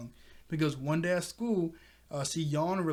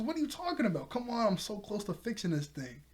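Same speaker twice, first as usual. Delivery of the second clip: high-pitched sister voice, lightly done; higher excited kid sister; 6 semitones higher than usual. Retold or imitated. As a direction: pitch up as the eager little sister. Miko voiced in retold scene.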